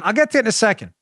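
ordinary delivery

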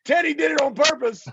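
high-pitched mock announcement; gleeful telling on a friend; retold tattling. Retold tattling out the car window.

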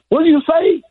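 high, loud champ's question; Muhammad Ali. Retold or imitated. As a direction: call back loudly in a high boxer impression. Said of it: "And Ali goes".

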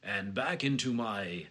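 slow, measured announcer voice; announcer-style transition voice; announcer guy. Shown as a demonstration. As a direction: ease into a podcast announcer delivery. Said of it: "slight transition in the middle of the announcer guy".

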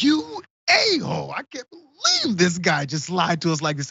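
模仿孩子受骗的愤慨; betrayed kid. Retold or imitated. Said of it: "The kid's looking at me like".

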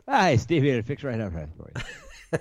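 slow, high put-on Irish lilt; mock Irish brogue. Joking to his co-host in a slow, high mock Irish brogue. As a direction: ham up an Irish caller offering help.

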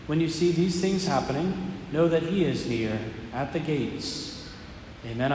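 measured solemn scripture reading; Gospel reading. Acted.

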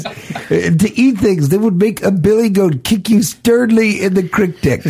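high voice cracking with laughter; laughing parody. Real, not acted. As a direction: giggle through the line. Parodying the movie line.

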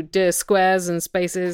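slow, mock-tender blessing. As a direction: bless them like a fond vicar.

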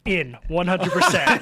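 all in on the pizza, laughing; laughing eager yes. Retold or imitated. Host recalling his eager reply about the pizza thrower, laughing. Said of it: "I was like".

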